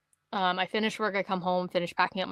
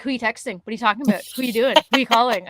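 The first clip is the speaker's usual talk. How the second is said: nosy questioning; 3 semitones higher, 5 dB louder, faster than usual. Retold or imitated. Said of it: "she's like".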